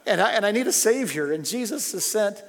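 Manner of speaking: heartfelt outpouring, pushed high and strong; real, getting emotional. Real, not acted. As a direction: preach it loud and high, close to tears. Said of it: "I'm sorry, I'm getting emotional".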